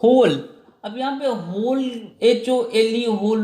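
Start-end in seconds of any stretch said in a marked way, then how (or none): 0.0-0.5 होल said louder on its own; stressed word. Shown as a demonstration. Teacher punching out the middle part for students. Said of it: "ठीक है".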